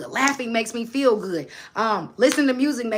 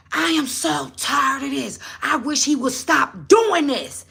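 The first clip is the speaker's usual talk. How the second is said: slow, higher imitation of a crying girl; mild retold sob in a higher child voice; tearful plea; 5 semitones higher, 3 dB louder, slower than usual. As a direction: plead it slowly, like a tired child near tears. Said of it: "she said it with all her might".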